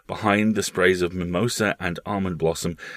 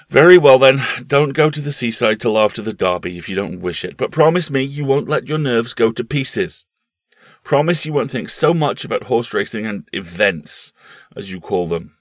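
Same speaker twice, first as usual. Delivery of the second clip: louder, urgent motherly plea; a mother begging a promise; pleading mother; 4 semitones higher, 7 dB louder than usual. Acted. The mother making Paul promise, louder and urgent.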